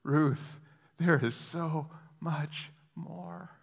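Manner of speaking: tender Jesus. Acted. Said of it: "But Jesus is saying".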